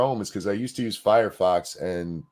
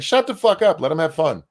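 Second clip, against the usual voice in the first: retold shout; 8 semitones higher, 5 dB louder than usual. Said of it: "And I was like".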